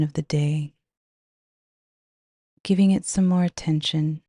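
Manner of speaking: measured hypnotic guiding voice with unhurried pauses; guided meditation. Acted. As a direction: guide the listener into a trance, phrase by phrase. Leads a guided visualization.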